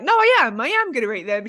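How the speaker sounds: put-on childish insistence. Retelling a reply to Josie, mock childish insistence. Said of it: "like a child".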